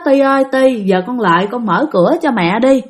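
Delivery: lightly voiced soothing mother; gentle, calm. Mother coaxing her crying child to open the door, gentle and calm. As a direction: coax a crying child, calmly. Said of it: "mẹ của nó mới nhẹ nhàng, bình tĩnh nói".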